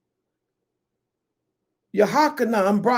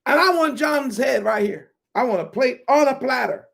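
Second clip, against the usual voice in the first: put-on greedy girl's demand; 2 semitones higher than usual. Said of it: "She said".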